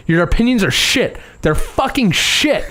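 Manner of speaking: lightly voiced grumpy Muppet; Bert quote. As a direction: drag out the last insult in a puppet voice. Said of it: "and he says".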